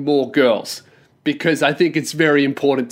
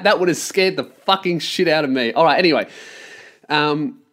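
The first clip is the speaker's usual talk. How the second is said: normal talking voice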